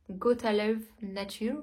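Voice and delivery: English brand name in a French speaker's English accent; slow, showy attempt at an English accent; accent anglais appliqué. Real, not acted. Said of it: "Vous avez vu mon accent". (accent anglais un peu exagéré)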